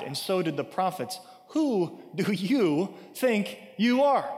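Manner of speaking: challenging, with slow stresses on key words; indignant exclamation. Acted. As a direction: exclaim it as an incredulous accusation. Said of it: "at this they exclaimed".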